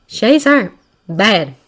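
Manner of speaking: tense woman's voice. Acted. Magna voiced by narrator.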